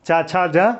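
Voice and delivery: slow, syllable by syllable rhyme; chanting the sound list slowly for students; slow mnemonic recital. Shown as a demonstration. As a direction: spell out each sound slowly as a memory aid. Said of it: "चा छा जा तो याद ही रहेगा".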